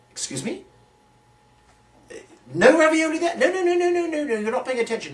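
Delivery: hammed-up fuss at a heckling crowd; mock indignant. Mock arguing with the audience.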